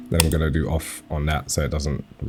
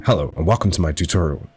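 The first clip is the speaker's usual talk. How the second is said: polite presenter voice, lightly put on; hint of a prim YouTuber intro; mock tutorial voice. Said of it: "It's not happening like that".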